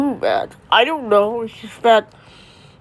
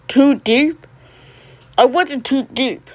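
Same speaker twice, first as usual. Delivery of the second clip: indignant; 4 semitones higher, slower than usual. Acted. Son indignant at father's words.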